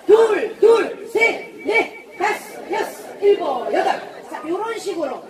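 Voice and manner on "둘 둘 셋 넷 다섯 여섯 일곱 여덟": loud, higher drill count; barking gym coach. Real, not acted. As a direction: bark out the reps. Coach counting exercise reps.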